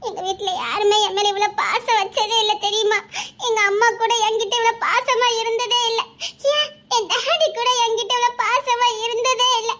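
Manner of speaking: weepy voice telling of lonely home; tearful confession. Acted. Girl tells boyfriend nobody loved her, crying. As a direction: confide through crying.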